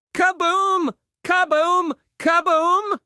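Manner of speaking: loud, high, punchy kaboom, said three times; booming kaboom. A narrator's reading. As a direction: shout out each kaboom like a burst. Magic bone boom effect.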